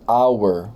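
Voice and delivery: hour starting straight on the vowel, "our"; silent H. Shown as a demonstration. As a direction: leave the H out of hour. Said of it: "Aqui eu não falo H".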